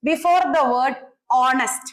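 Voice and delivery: very slow, each word spaced out for notes; slow dictation. Shown as a demonstration. Teacher dictating a rule to the class, very slowly. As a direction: read the rule out slowly so students can copy it. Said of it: "ഇനി അടുത്ത ഒരു special case നോക്കിക്കേ".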